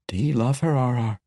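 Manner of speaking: lightly voiced dwarf girl, grieving; a hint of a rough dwarf lass missing her sister. A narrator's reading. Mala asks gently.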